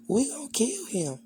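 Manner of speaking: sisters' threat in a hushed whisper. Retold or imitated. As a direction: breathe it out like a secret threat. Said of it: "why they was talking like that".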